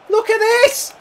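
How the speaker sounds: high, loud shout at the defenders; angry shout. Real, not acted. Gamer yelling at his defenders for not marking, angry shout. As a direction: yell it at the screen.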